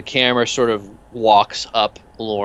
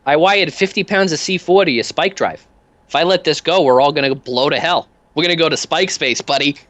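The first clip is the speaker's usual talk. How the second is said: much higher, cheery odd little thug; much higher goofy henchman voice; Peanuts voice; 8 semitones higher than usual. Acted. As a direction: chirp the question brightly.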